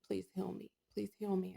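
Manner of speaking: hushed, understated begging; tearful pleading. Retold or imitated. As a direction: retell a tearful prayer under your breath. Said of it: "And I'm crying".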